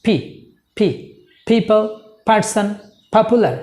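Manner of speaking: পি, people, person, popular with puffed p; aspirated p. Shown as a demonstration. Teacher showing how we will pronounce these, aspirated p. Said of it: "এভাবে আমরা উচ্চারণ করব".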